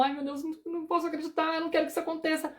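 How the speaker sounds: high, soft, fast panicked pleading; panicked inner voice. Retold or imitated. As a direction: fret in rising alarm, voice pinched up high. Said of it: "Ou então". (pânico interno, agudo, baixo e rápido)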